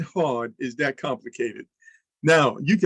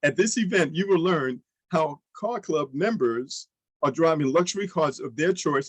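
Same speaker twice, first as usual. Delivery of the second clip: slower take. Shown as a demonstration. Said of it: "I kinda said it too fast".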